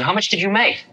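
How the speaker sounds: a gentle hint of the old teacher's voice; light imitation of an old Indian holy man; old guru asking. Guru asks amount.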